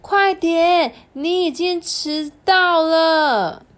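high, loud hurry-up call; urgent mom call. Acted. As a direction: rush the child out the door. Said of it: "妈妈就说：".

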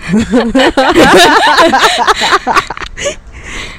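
high, loud burst of nervous laughter. Real, not acted. Laughing after retelling grandma's ghost story, loud nervous laugh. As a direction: laugh off the fright.

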